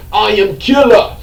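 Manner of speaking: slow, hammed-up Russian villain accent; mock the Russian accent of the villain Rhino; a hint of a cheesy Russian accent, slow. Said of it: "that horrible Russian accent".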